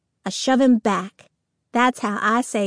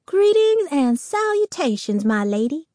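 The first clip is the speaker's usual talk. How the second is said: mock courtly knight; 4 semitones higher than usual. Brother bows, mock courtly greeting.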